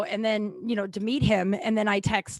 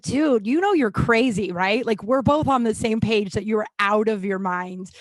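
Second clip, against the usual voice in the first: retold exasperated rant; 2 semitones higher, 6 dB louder than usual. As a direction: replay a fed-up confrontation at raised volume. Retelling her angry message to him.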